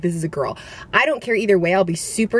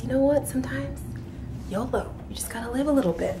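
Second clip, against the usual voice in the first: higher, breezy yolo voice from her inner self; carefree inner voice; 5 semitones higher, 7 dB quieter than usual. Retold or imitated. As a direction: let the carefree side of you talk, lightly. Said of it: "the other part of me just says".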